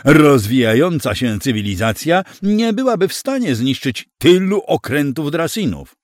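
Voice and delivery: high, loud, incredulous protest; worked-up, scandalized rebuttal; indignant objection. A narrator's reading. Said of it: "żachnął się inny z obecnych".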